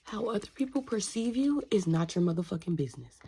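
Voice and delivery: loud, forceful statement; emphatic declaration. Real, not acted. Telling viewers others' opinions are not theirs, forceful. Forcefully hammering home a lesson.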